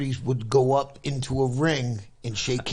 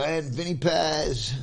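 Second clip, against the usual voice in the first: lightly voiced ring announcer, higher and stretched out; 4 semitones higher, slower than usual. They call the young fighter up into the ring, lightly voiced announcer. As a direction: call the name out slowly like an announcer. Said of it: "so they go".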